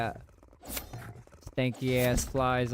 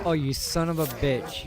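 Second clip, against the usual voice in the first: angry; 3 semitones higher, 4 dB louder than usual. Real, not acted. Bears attack during gameplay.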